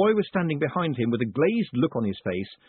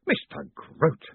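higher, mildly sharp rebuke; snapped; 5 semitones higher, slower than usual. Acted. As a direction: cut him off by name. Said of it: "snapped Moist".

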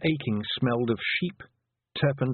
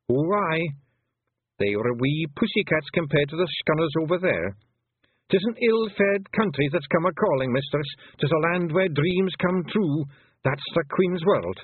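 higher Scots voice, ominous and measured; grave Rob Anybody; 7 semitones higher than usual. A narrator's reading. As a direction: warn of the other side gravely. Rob describing the Queen's world.

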